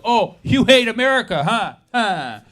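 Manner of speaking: sneering, accusing troll voice; mocking troll. Commenter sneering at the comedian, accusing and mocking. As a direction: jab at him like an online troll. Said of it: "a message that says".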